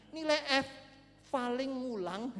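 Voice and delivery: loud, high, drawn-out ending; comic nonchalance. Real, not acted. Preacher dismisses the worst grade, loud comic nonchalance. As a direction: call it high, then stretch the last words.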